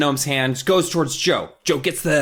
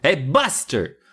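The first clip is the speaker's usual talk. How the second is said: higher-pitched, held-back yell; mock calling out; 4 semitones higher, slower than usual. Kids yelling to the dog through basement window, mild mock yell. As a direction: call the dog without real volume. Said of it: "they start yelling at Buster".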